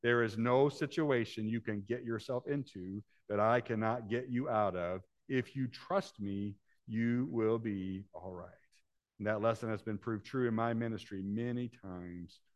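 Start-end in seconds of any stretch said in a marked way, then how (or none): 0.0-8.5 God's reassurance. Acted. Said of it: "God seemed to be saying to me".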